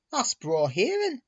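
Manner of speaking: heartfelt, lifting high; a touch of moved delight; with feeling. Acted. Douglas hearing of the safe railway, with feeling. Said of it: "said Douglas with feeling".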